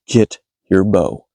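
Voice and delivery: low and drawn out, word by word; measured, insistent low command; slow, deliberate repeat. Retold or imitated. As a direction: repeat the order slowly in a low voice. Repeats order after companion asks what.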